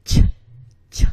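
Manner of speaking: crisp ch bursts; ch sound. Shown as a demonstration. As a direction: pop ch off the roof of the mouth. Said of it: "push your tongue up all the way".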